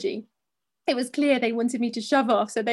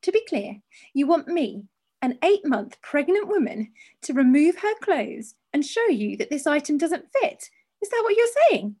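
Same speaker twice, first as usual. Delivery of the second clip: rising indignation; 3 semitones higher than usual. Retold or imitated. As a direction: get more worked up and squeaky. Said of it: "My volume was increasing and I was getting a bit shaky and squeaky".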